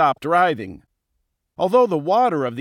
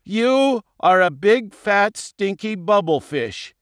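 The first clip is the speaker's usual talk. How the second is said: higher, louder, proud comeback; defiant retort; 5 semitones higher, 3 dB louder than usual. A narrator's reading. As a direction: throw the insult back boldly. Victim defiantly insults the king.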